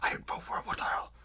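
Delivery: unvoiced whisper of a grumbling orc; whispered grumble. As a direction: mutter it under your breath in the crowd. Crowd member grumbling aside.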